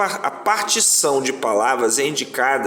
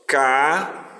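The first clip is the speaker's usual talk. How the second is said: CABELOS broken into slow separate syllables with pauses. Shown as a demonstration. Teacher showing pupils how cabelos divides, syllable by syllable. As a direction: say CABELOS piece by piece, "ca... be... los". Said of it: "pronuncie a palavra de forma natural para perceber".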